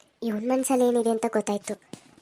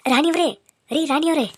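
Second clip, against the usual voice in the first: raised-pitch call for attention; 5 semitones higher, 4 dB louder than usual. Acted. Suitor calling out to the woman he spotted, in a raised call. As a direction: call her over. Man calls to Rani.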